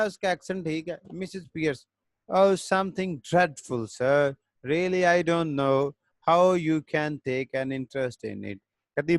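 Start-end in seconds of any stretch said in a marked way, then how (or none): 2.3-8.6 reads the English line slowly, word by word; slow play reading. A narrator's reading. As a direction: spell out each line for the class, unhurried. Teacher reads a play aloud.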